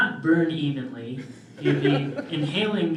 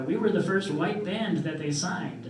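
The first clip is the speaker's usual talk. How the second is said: impression of dad; 4 semitones higher than usual. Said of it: "quoting father again".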